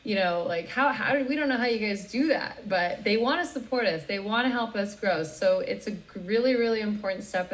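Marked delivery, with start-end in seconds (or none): 0.0-2.7 mildly astonished, pitch lifted; shocked. Retold or imitated. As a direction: imitate their baffled surprise, a bit higher. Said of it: "they're even shocked by it too".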